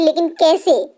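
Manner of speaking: sister-in-law asking through tears, a touch of sobbing; tearful. Acted. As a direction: ask through mild tears. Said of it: "Sharda रोते हुए कहती है".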